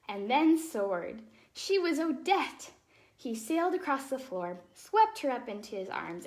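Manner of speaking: put-on lively, expressive read-aloud for children; storybook reading. A narrator's reading. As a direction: tell the tale like a bedtime story.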